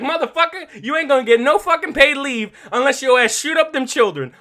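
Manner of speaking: yelled, high-pitched drill sergeant rant; angry NCO. Retold or imitated. Soldier cursing out a hesitant recruit, loud and angry. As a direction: bark it like a furious NCO. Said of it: "the N C O is like".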